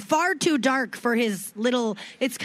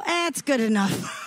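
laughing shrug. Retold or imitated. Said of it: "I heard somebody go".

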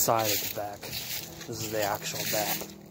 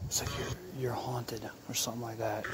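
whisper; 7 dB quieter than usual. Real, not acted. Whispering on a ghost hunt.

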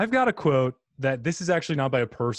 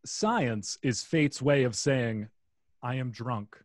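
slow quote reading; slower than usual. Shown as a demonstration. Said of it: "Inspirobot says".

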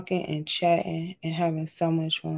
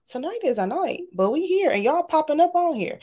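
excited; 8 semitones higher than usual. Real, not acted. Excited greeting to live chat.

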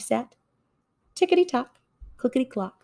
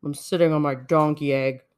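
mild growl; 4 semitones lower than usual. Acted. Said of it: "growled Bear".

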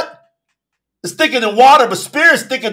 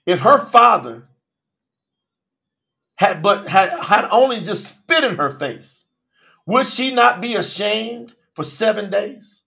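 God answering; 3 semitones lower than usual. Acted. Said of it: "And Yahuwah said to Masha".

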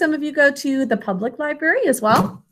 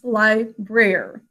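slow sounding out; slower than usual. Shown as a demonstration. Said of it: "Three sounds".

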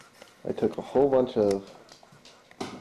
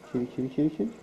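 sing-song kitty call; calling a cat; much faster than usual. Real, not acted. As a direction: coax the cat with a lilting call.

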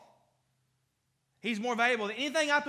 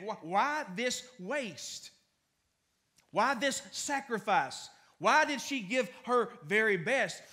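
slow, drawn-out indignant complaint; slow, mildly indignant mock grumble; grumbling disciples; slower than usual. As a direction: stretch each why out like a grumble. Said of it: "The disciples said, they grumbled".

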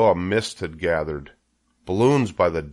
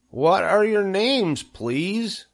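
high, slow eager question; trembling with joy; 12 semitones higher, much slower than usual. A narrator's reading. Wilbur asks his new friends, trembling with joy. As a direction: ask it joyfully, pitched way up. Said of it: "trembling with joy".

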